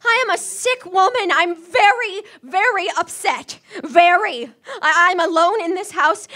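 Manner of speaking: demanding invalid pressing her case; insistent. Acted. Invalid insists nurse is necessary.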